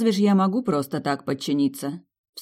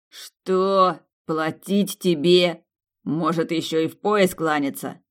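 growling; slower than usual. Acted. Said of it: "Натурально зарычал Ален".

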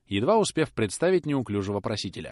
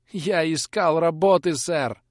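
higher, louder, slow tearful answer; sobbing plea; 7 semitones higher, 6 dB louder, slower than usual. Acted. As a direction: sob it out. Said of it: "всхлипывал Роб". (всхлипывая, выше и медленно)

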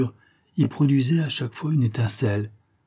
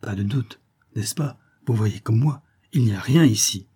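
a touch of tremble, hushed at first; shaken, asking for reassurance; understated quaver; trembling voice. Acted. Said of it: "me demanda d'une voix tremblante".

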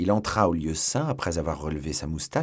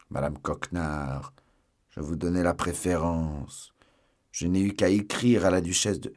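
lightly voiced Porthos.

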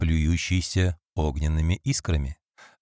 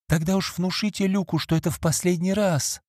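pleading; 10 semitones higher than usual. Acted. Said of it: "взмолилась Фиби".

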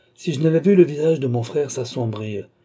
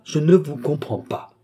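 insistent repeat, raised pitch, falling end; defiant denial, a little more contained; 4 semitones higher than usual. A narrator's reading. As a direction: press NE firmly, with a raised voice. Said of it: "de défi et presque de menace".

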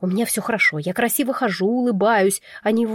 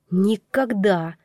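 slow, firm inner voice refusing; a touch of a gruff bull barking no; categorical bark; much slower than usual. A narrator's reading. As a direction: draw it out, flat refusal. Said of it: "категорично рявкнул бык".

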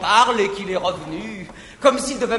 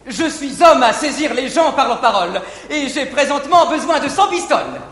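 laughing; 3 semitones higher, 5 dB louder than usual. Acted. Horace asks for money, laughing.

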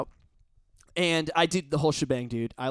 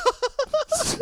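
high laugh. Real, not acted. Stifled reaction at the scene.

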